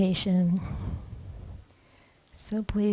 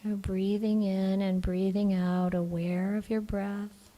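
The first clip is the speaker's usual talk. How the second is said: calm, even meditation voice with long pauses; guided meditation; 4 dB quieter than usual. Acted. Teacher guiding the group to relax the body, calm meditation voice. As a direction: gently guide them into relaxing, leaving long silences.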